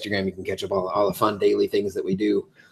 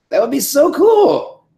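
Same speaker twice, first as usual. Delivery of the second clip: high, loud, drawn-out enthusiasm; excited; 8 dB louder, slower than usual. Real, not acted. Fan pitching a dream movie idea, excited. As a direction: gush loudly, stretching the words.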